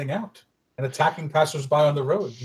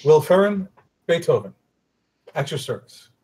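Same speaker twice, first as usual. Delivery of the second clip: higher, louder flourish of a bard's introduction; grand introduction; 3 semitones higher, 5 dB louder than usual. Acted. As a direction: announce yourself with a sweeping bow. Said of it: "a sweeping bow and say".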